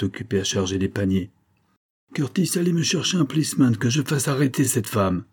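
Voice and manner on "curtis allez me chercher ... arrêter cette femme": angry command. A narrator's reading. Baronet orders groom to fetch police.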